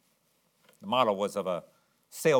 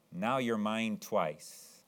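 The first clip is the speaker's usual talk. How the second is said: softer and very slow, tender; tender boy; 5 dB quieter, much slower than usual. Acted. Boy walking away, talking to his boat, tender and slow. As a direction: say it fondly to the boat in your arms.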